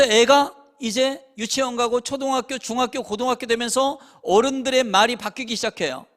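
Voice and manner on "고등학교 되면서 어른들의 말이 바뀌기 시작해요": ordinary talk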